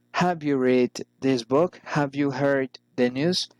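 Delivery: "book" and "news" each rising; rising intonation. Shown as a demonstration. Teacher models general questions, rising on "book" and "news". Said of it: "General questions arise in intonation".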